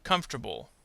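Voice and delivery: "Comfortable." said as KUMF-ter-bul; dropped syllable. Shown as a demonstration. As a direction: demonstrate "Comfortable." in three syllables. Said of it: "middle syllable will disappear".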